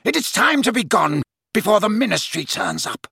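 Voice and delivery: high, urgent command; shouted order. A narrator's reading. Snape hurrying the Death Eater away, shouted. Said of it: "he shouted at the huge Death Eater".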